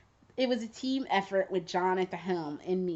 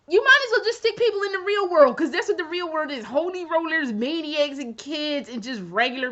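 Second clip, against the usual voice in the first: ranting; 2 semitones higher, 5 dB louder than usual. Real, not acted. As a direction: vent at them, fast and loud. Ranting at Mobius.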